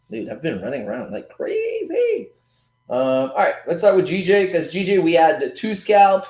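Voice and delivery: usual speaking voice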